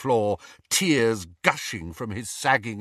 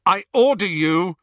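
louder, sharp command; fierce master's call; 8 semitones higher, 7 dB louder than usual. Acted. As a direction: call his name like an order. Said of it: "said Harry fiercely".

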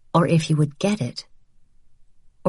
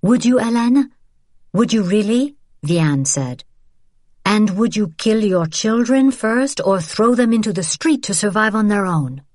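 sharp challenge; 6 semitones higher than usual. A narrator's reading. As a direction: throw the question back at her. Vianne challenges Hélène.

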